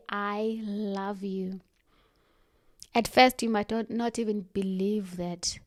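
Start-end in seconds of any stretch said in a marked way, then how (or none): 0.1-1.6 soft and slow, every word meant; quiet, deliberate self-love; slow tender affirmation. Shown as a demonstration. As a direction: say it gently to yourself in the mirror. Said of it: "Look yourself in the eye and say".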